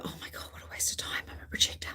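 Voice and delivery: whispered disappointment about the lost video; inner doubting voice. Retold or imitated. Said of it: "Part of me could go".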